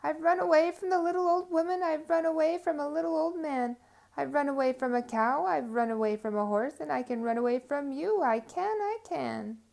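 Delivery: high, loud taunting shout; shouting boast. Acted. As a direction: yell the boast while running.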